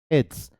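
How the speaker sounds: "It's" said as one syllable; contracted form. Shown as a demonstration. Teacher answers what the pronunciation will be, contracted form. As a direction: model "It's" run together as a contraction. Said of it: "pronunciation क्या रहेगी?".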